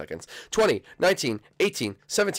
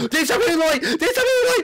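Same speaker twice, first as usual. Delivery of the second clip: high, loud cry at a friend; yelling; 6 dB louder than usual. Real, not acted. Calling out to Dane, yelling high. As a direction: yell at Dane to stop.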